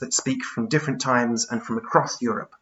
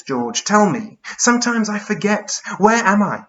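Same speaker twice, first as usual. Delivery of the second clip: raised, searching poetic recollection; Charles Byrne, bewildered; 5 semitones higher, 4 dB louder, slower than usual. Acted. Confused giant asks George where that place was, bewildered. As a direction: reach back through memory, ending in high lost questions.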